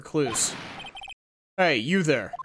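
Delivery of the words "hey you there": lightly voiced tough-guy cop; a hint of a brusque detective warning off a stranger; gruff detective. Player voices Detective Gumshoe.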